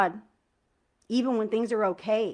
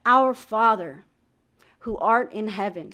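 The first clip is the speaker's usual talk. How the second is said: slow, deliberate prayer; reverent, unhurried recitation; prayer felt line by line. Shown as a demonstration. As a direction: savour each word of the prayer. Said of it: "but feeling each line".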